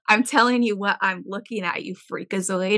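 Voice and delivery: exasperated reply through a laugh; laughing retort. Retold or imitated. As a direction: laugh while snapping back. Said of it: "And I'm like".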